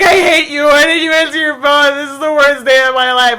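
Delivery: dramatic phone rant at mom; mock angry yell. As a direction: rant at mom, hammed-up upset.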